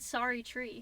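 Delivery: copied mock-Australian "Sorry, tree"; attempted Australian accent. Shown as a demonstration. Echoing co-host's demo, tentative Australian accent. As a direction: try out an Australian "so true". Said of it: "I can't even do Australian accents".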